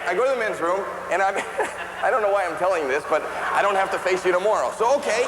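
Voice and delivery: high cartoon kid voice telling a story; squeaky storyteller voice for the whole bit; Bobby voice. Stand-up clip, high voiced.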